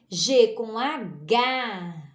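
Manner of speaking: stretched teaching syllable after the letter names in "G com H"; "G com H" read out slowly as letters, then hard-g syllable. Shown as a demonstration. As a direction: slowly spell "G com H", ending on a long "ga". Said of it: "eu leio ga".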